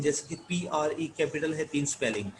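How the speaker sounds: normal talking voice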